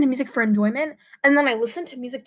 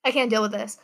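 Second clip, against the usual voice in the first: swallowing between words; gulping. Real, not acted. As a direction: talk while gulping saliva. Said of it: "sorry if you can hear me gulping".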